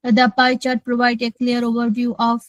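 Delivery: a fuller voice, read very slowly. Shown as a demonstration. Student shows the teacher her fuller test voice. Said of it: "ভরাট গলাটা কোনটা একটু বলেন তো".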